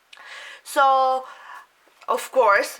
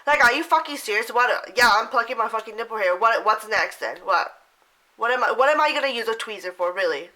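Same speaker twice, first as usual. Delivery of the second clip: indignant rant. Real, not acted.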